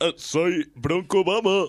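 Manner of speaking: put-on Hawaiian accent. Asked to imitate Obama, speaker uses a put-on Hawaiian accent as Obama. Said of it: "Tengo que poner voz de tipo de Hawái. Esperen, el acento de Hawái se me da bastante bien".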